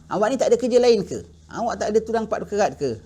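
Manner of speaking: mock him for not working; a touch of contemptuous scorn; rude brush-off. Rudely refusing a beggar.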